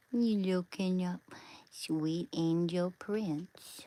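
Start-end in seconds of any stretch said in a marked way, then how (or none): 1.7-3.8 slow, hushed cooing. Real, not acted. Cooing to the beloved dog, slow whisper. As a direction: whisper tenderly to a puppy.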